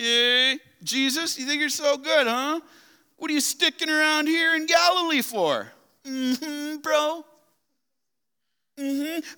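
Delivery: very high-pitched, teasing, mocking jeer. Retelling how the brothers taunted him: imitating mocking brothers. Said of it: "They've got that brotherly tone with them".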